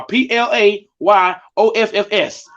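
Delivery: P L A Y O F F S spelled slowly, each letter separate. Shown as a demonstration. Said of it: "I'ma spell it out for y'all".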